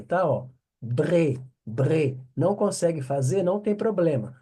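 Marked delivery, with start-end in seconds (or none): 0.8-2.2 teacher drilling the throat R; guttural bre. Shown as a demonstration. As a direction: rasp the R of bre at the back. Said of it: "esse R é um R aqui bem na garganta".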